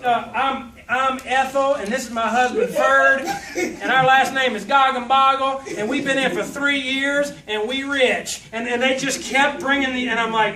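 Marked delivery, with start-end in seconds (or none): 0.0-8.4 lightly voiced chirpy wife, slow; a hint of a sugary recruiter introducing her husband; mock seminar couple. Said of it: "You know".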